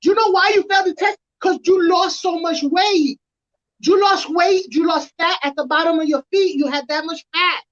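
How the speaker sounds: high, hammed-up sergeant lecture; first sergeant voice. First sergeant explaining the failed test, high mock voice. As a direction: lay out the daft theory like a know-it-all boss. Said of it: "he told me".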